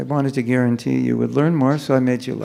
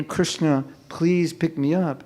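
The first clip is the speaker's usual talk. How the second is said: heartfelt plea; 4 dB quieter, slower than usual. Shown as a demonstration. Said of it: "you're supposed to mean".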